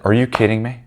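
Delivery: mild retold disbelief, rising in pitch; incredulous. Retelling his comeback to her, incredulous.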